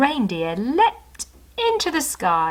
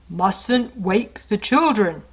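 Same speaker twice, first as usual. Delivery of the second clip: agreeing; slower than usual. Acted. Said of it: "agreed Santa".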